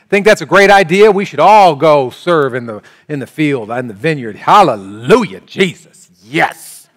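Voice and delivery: loud mock revival fervour, easing then bursting out; hammed-up yelling. Son zealously agreeing to serve, in a hammed-up yell. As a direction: play the over-eager worshipper at full volume. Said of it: "maybe he yelled out".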